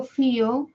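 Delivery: "fío" split in two, stress on the I; "fío" as fí-o, first vowel strongest. Shown as a demonstration. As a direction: separate the vowels in "fío", leaning on the í. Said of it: "ahora lo separo".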